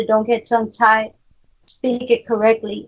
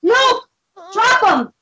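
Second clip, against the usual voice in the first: hype yell; 7 semitones higher than usual. Real, not acted. Hyping, yelling at friends.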